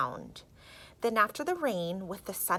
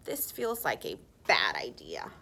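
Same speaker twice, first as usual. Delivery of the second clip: worried low whisper; 13 semitones lower than usual. A narrator's reading. Rick doubting the plan, low worried whisper. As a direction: breathe it out nervously.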